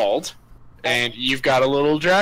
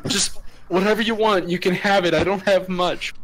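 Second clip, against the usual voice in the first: intimidated; 3 semitones higher than usual. Acted. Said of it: "he's intimidated".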